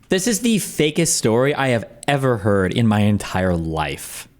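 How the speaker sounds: slow, deliberate verdict; slow disbelief. Real, not acted. Streamer telling viewers about a fake story, slow disbelief. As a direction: spell out your disbelief slowly.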